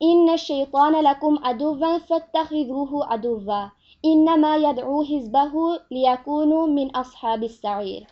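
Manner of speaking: measured, sustained Arabic scripture recitation; solemn Arabic verse recitation; Koran recitation. Acted.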